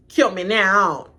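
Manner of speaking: slow, loud laughing kill me now; laughing despair. Real, not acted. Joking about the trip, slow laughing plea. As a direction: laugh it out slowly. Laughing at her own plan.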